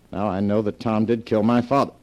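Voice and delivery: horrified, forceful declaration; alarmed accusation. Acted. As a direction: read the dreadful news out with full force. Reading out an accusing letter.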